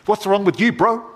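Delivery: put-on high, loud Maori accent calling out to a mate. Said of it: "I'll do a Maori one".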